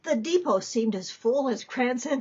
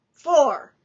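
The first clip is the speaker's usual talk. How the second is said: nun calls the number; 3 semitones higher, 9 dB louder than usual. Acted.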